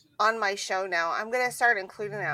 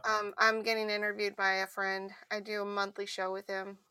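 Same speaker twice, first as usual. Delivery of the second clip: out of breath. Real, not acted. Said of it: "what was that for? ... I'm out of breath".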